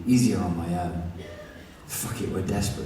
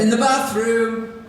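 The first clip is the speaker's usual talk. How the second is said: high shouted call, slowed; 7 dB louder, slower than usual. Acted. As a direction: yell it out to the door. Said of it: "I shout".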